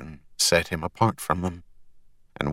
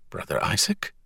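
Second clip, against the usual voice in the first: hesitant whisper; 6 dB quieter than usual. Acted. Hesitant question to robot.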